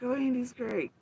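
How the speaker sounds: high, airy mocking praise; mock gushing. Mocking a streamer who praises Andy, high gush. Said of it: "She's like".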